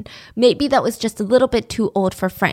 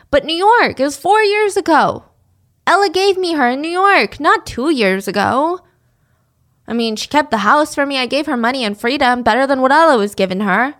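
mock Frank; 3 semitones higher than usual. Frank spinning his lies to police, smug mock voice. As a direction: sneer out the excuses of a liar. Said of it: "he said".

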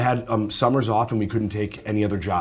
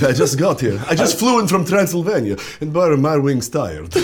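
out of breath vampire; 4 semitones higher, 3 dB louder than usual. Retold or imitated. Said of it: "your vampire is slightly out of breath".

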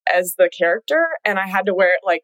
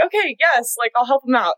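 higher, giggly reluctant okay; reluctant yes; 6 semitones higher than usual. Retold or imitated. Agreeing to the coach, lightly amused and high. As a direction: shrug it off, pitched up. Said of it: "And I was like".

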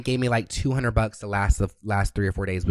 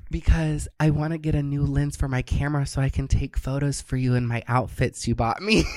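put-on sweet voice, rising to a shout at the end; butter him up with a sugary pitch; sweet-talking; 3 semitones higher than usual. To her sugar daddy, hamming up an innocent sweet voice.

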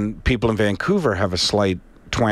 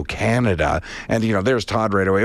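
ordinary delivery

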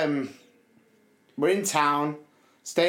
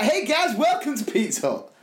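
waiter greeting; 8 semitones higher than usual. Retold or imitated. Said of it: "He was like".

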